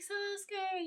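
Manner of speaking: high-pitched mock-scared call; imitated scared cry. Pink-haired girl frightened for Sasuke, mock-scared. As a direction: call the name as if frightened for him. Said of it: "all scared".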